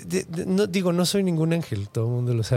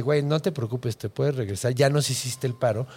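serious; 5 semitones lower than usual. Retold or imitated. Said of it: "en muy seria".

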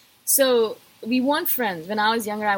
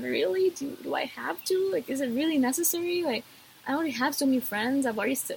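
exasperated, put-upon whine with whispered sighs; reluctant groan; 3 semitones higher than usual. Pretend. Turning down a would-be friend, exasperated and whiny. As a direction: act burdened by the request, pitch up and whiny.

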